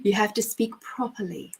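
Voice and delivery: mock-prim elocution teacher; playfully proper and precise; careful enunciation. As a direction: enunciate each vowel with playful propriety. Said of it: "you must enunciate all of your vowels".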